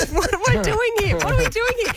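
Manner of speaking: high, laughing mock existential cry; laughing echo. Friend laughingly echoing the big life question.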